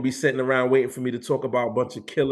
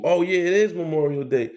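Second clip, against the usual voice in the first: imitating a surprised person, pitched higher; mock sudden realization; 7 semitones higher than usual. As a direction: play someone just now remembering the holiday. Mocking people's sudden realization.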